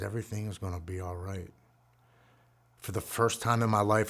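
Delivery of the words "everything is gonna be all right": soft, understated reassurance; calming, loving voice. Retold or imitated. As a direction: reassure gently, well under usual volume. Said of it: "It was calming, it was loving".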